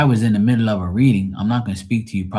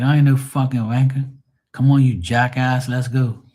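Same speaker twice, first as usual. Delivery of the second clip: pitched-up, louder put-on British banter; mock English accent; 5 semitones higher, 4 dB louder than usual. Retorting to an English coworker, mock English accent. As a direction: banter back in a lightly faked English accent. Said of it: "the accent pretty good".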